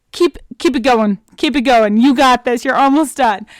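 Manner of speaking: urgent pep talk to a runner; cheering someone on. Pretend. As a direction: push them through the last stretch. Cheers on listeners running on treadmill.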